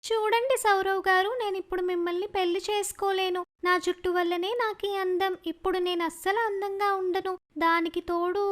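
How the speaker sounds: tearful. Acted. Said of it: "ఏడవటం మొదలు పెడుతుంది".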